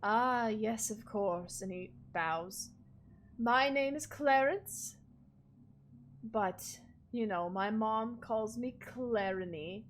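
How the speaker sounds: lightly voiced formal manservant; polite butler. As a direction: welcome the guests grandly. Clarence introduces himself.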